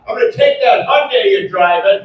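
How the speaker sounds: mock road-rage threat. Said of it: "This is word for word".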